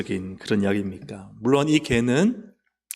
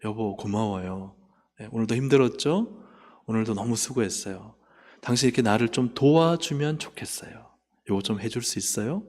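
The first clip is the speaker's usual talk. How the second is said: kind words to husband; 4 semitones lower, 5 dB quieter than usual. Retold or imitated. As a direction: thank him tenderly. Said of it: "말을 바꿔보세요".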